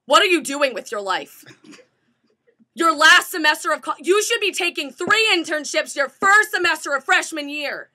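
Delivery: loud, emphatic scolding rant; mock berating lecture. Storyteller mimics presenter berating students, mock harangue. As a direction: hammer each phrase like an overbearing career coach.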